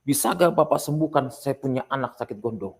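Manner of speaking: lightly acted challenger; challenging demand.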